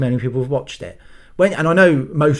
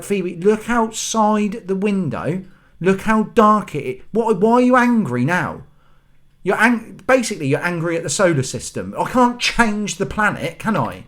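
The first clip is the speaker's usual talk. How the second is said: exasperated scolding; 5 semitones higher than usual. Retold or imitated. Scolding daughter at three am.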